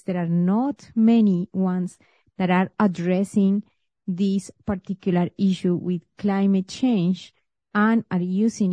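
measured host introduction, phrase by phrase; podcast intro read. Real, not acted. Host introduces today's guest to listeners, scripted podcast intro read.

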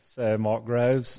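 slow, lightly mock British introduction; British accent. Host reintroducing guest, mock British accent. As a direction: say the title like a British announcer, slow.

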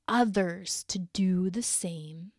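whisper. Real, not acted. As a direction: breathe the words out gently. Tender closing of message.

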